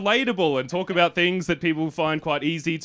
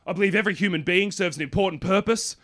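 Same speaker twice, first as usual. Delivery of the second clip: put-on earnest American accent, a little raised; American therapist accent; 4 semitones higher than usual. Therapist reassuring his client, imitated American accent. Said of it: "He's an American man".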